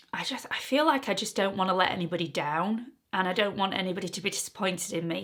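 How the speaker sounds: barely breathing the words out, choked up; emotional whisper. Real, not acted. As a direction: close to tears, whispering, then quick and soft. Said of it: "I'm so emotional about this topic".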